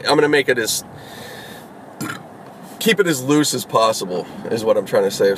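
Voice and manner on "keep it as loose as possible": words pushed out through a burp; a burp breaking into the speech. Real, not acted. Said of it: "Sorry, I said a burp at again".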